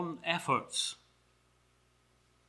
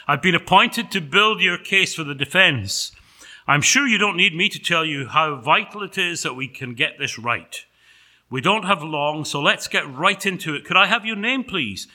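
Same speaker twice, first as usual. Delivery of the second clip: louder, higher, businesslike advocate; officious angel; 4 semitones higher, 5 dB louder than usual. Acted. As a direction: get briskly down to business. Angel as defense counsel.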